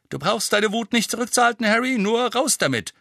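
high, loud, cheerful ribbing; beaming teasing. A narrator's reading. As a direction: egg him on with a grin. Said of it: "ebenfalls strahlend". (strahlend, hoch und neckend)

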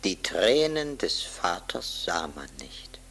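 soft hushed telling; whispered aside to the listener; whispered narration. A narrator's reading. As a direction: whisper it like a secret.

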